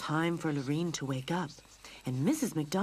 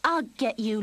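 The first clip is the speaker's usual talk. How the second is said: louder eager cry mid-pounce; calling out; 6 semitones higher, 7 dB louder than usual. Acted. Lucy pouncing at the mouse, calling out. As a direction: launch it as you jump. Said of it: "Lucy called".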